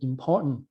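"important" with a brief throat stop for middle T; swallowed T. Shown as a demonstration. Teacher shows learners the clip's reading, "important" with swallowed T. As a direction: hold back the middle T in "important". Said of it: "อย่างอันนี้เขาจะอ่านว่าเป็น important".

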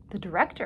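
"The director" said with rising question tune; "The director" turned into a surprised question. A narrator's reading. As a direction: echo "The director" as a query, lifting at the end. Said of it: "asked Pasha".

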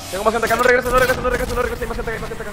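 loud urgent warning to teammate; urgent callout. Real, not acted. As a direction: shout it so he turns back. Warning teammate mid-fight.

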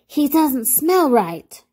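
high, drawn-out rabbit exclamation; startled storybook rabbit; exclaiming. A narrator's reading. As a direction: exclaim slowly in a high character voice. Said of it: "he exclaimed".

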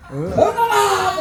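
drawn-out strained push, laughing; mock straining grunt. Shown as a demonstration. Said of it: "이렇게 해, 소리". (힘주며 내는 익살스러운 소리)

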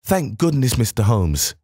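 excited visitor greeting Holmes; excitedly. Acted. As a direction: burst out in relief. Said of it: "he cried excitedly".

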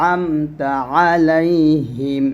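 slow আমতা with a light squeeze in the throat on the first sound; pressed ayn. Shown as a demonstration. Teacher corrects the letter, pressed ayn in আমতা. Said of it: "আইনটা একটু চাপ দিয়ে".

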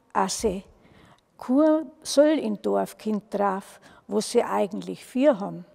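lively dialect storytelling; folk tale narration. A narrator's reading. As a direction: read it aloud like a village yarn. (lebendig vorgelesene Mundartgeschichte)

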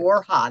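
"Borja" confirmed as BOR-ha; h pronunciation. Shown as a demonstration. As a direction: say "Borja" firmly with an H for the J. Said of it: "you got it right the first time".

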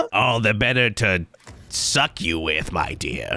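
big bad wolf granny teasing; creepy granny.

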